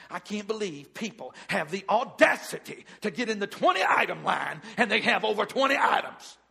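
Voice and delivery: mock-indignant griping at the register; indignant complaint. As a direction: complain to the cashier about the line. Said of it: "we get up to the cash register and says".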